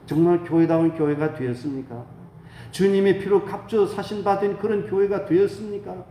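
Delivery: searching rhetorical questions from the pulpit; earnest preaching. Real, not acted. Pastor asking the church to look back on its past, earnest preaching. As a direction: challenge the congregation to examine itself.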